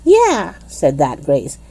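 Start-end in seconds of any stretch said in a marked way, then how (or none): 0.0-0.6 emphatic yeah. A narrator's reading. Grace agreeing emphatically.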